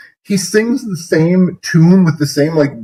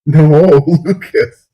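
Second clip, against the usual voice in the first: laughing protest; 2 semitones higher, much slower than usual. Real, not acted. Cringing, begging the singer to stop.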